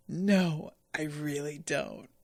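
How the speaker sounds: "I really don't" dropped low and soft, flat and dry; low deadpan. Retold or imitated. Fan re-quotes the dub's funnier answer, low and deadpan. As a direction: drop it to a dead-flat murmur. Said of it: "That is so much fucking funnier".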